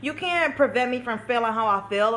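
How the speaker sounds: imitating her sassy younger self; sassy child. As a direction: snap back like a defiant kid. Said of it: "I was getting sassy".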